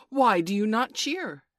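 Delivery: loud, slow, indignant demand; hotly. A narrator's reading. Peter wanting cheers from the boys, hotly. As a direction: demand it high, stretching the words. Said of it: "he said hotly".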